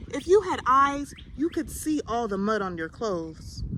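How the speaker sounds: mother snapping at her muddy son; mother scolding. Acted. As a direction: scold him like a weary mother. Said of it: "Basha would say".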